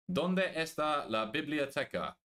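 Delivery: slow, careful textbook Spanish; schoolbook Spanish. Pretend. Streamer shows off school Spanish to chat, slowly. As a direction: recite it like a proud school pupil. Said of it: "I did Spanish in school".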